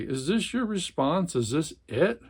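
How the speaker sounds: dramatic read-aloud of a tense family scene; novel reading. A narrator's reading. Book reviewer reading a novel passage, dramatic narration. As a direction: read it like a gripping literary passage.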